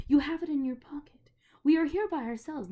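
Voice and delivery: conspiratorial whisper; whispering witch. A narrator's reading. Witch whispering to Diggory that they are alone, conspiratorial. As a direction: lean close and whisper the secret.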